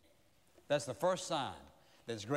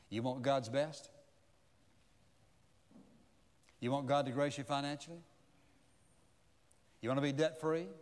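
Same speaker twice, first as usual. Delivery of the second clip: preaching altar call. Acted. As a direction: press each question home gently, one by one. Sermon altar call over music.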